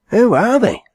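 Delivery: very high, loud gasp of a question; astonished question. A narrator's reading. Astonished haymaker peering into the hearse, high shocked question. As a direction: blurt it in shock. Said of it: "said the astonished haymaker".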